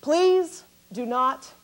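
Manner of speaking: slow, deliberate calm announcing; pilot announcement. Retold or imitated. Pilot on the loudspeaker telling passengers, slow and calm. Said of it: "we hear the loudspeaker".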